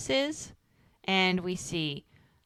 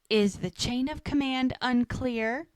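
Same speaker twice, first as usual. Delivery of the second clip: slow, higher-pitched condescending question; retold smugness; 5 semitones higher than usual. Boss putting her underling in his place, smug. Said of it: "She's very smug".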